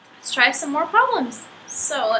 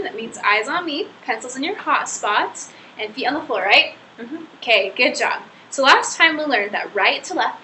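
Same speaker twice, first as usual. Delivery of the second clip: bright, sing-song classroom voice; kindergarten teacher voice. Acted. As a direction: talk to little kids, upbeat.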